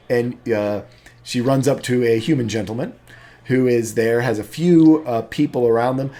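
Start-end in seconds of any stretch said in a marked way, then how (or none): none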